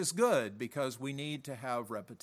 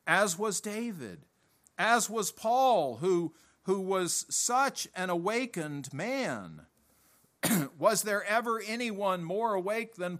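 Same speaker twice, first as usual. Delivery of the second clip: rising fervor; 4 semitones higher than usual. Real, not acted. Preacher building fervor.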